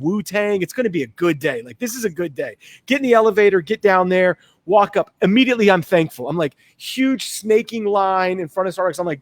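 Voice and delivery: ordinary delivery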